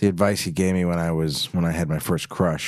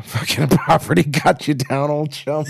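theatrical voice; 7 semitones higher, 4 dB louder than usual. Acted. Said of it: "community theater".

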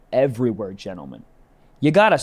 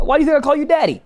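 mock girlfriend; 10 semitones higher, 6 dB louder, much faster than usual. Acted girlfriend line.

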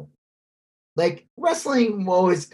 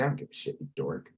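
mock wife; 12 semitones lower, 12 dB quieter, faster than usual. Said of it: "She's like".

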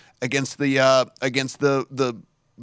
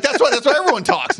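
mimicking coworker; 13 semitones higher, 6 dB louder than usual. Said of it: "He's like".

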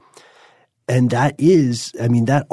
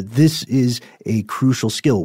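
usual speaking voice

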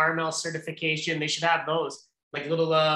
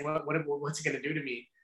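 much softer, like confiding something embarrassing; hushed retold question; 2 semitones lower, 9 dB quieter than usual. Customer privately asking the shop staff about a product, hushed. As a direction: drop the volume for a furtive, mock-whispered question. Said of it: "whisper to us".

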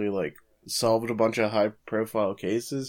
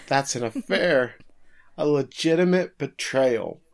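higher-pitched mock outcry, no real shouting; playful, raised-pitch accusation; mock outraged yell; 4 semitones higher than usual. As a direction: cry out as a scandalized husband, half laughing. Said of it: "he yells out".

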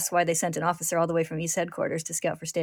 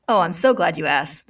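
bright, pleased reply, a little louder; cheerful; 6 dB louder than usual. Acted. The figure greeting Ed, cheerfully. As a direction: sound delighted to be asked. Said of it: "the figure replies cheerfully".

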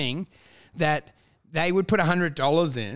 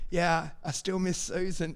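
under your breath; 7 dB quieter than usual. Retold or imitated. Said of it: "say under your breath".

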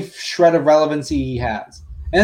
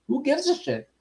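laughing; 8 semitones higher, 7 dB quieter than usual. Real, not acted. Laughing at angry fans.

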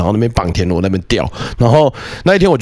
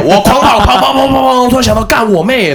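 breathless excitement; 11 semitones higher, 4 dB louder than usual. Retold or imitated. Telling frantic escape run.

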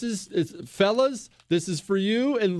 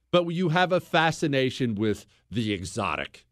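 usual speaking voice

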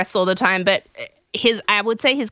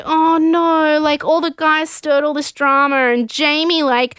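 higher-pitched gushing retelling; imitating a guilt-stricken ramble in a raised voice; mock dismay; 5 semitones higher than usual. She feels bad because he cried, mock dismay. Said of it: "And so then she's like".

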